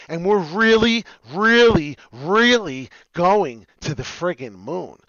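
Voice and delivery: loud, high, stretched out really really; excited hype. Real, not acted. Host hyping viewers that crypto goes to the moon. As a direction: build the hype, drawing it out.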